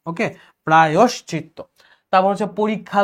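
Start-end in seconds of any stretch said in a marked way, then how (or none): 0.7-1.6 প্রায়শ্চিত্ত with a clear "yosh"; corrected pronunciation. Shown as a demonstration. Teacher repeating the correct word, প্রায়শ্চিত্ত with o. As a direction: say প্রায়শ্চিত্ত as "pra-yosh-chit-to". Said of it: "অন্তস্থির সাথে ওকার হবে".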